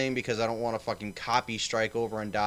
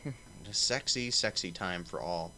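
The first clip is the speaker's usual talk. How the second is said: sultry; 4 semitones lower, 6 dB quieter than usual. Acted. Host's low, slow teasing greeting.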